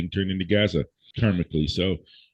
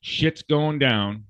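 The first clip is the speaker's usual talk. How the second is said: insistent wake-up call; 6 semitones higher, slower than usual. Real, not acted. Ranting host warns listeners, higher and emphatic, slowing down. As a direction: hammer it home and slow down at the end. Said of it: "and why I'm talking like this".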